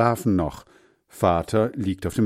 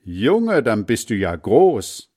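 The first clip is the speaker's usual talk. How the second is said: proud surprise; 2 semitones higher, 5 dB louder, slower than usual. Acted. Father amazed at son.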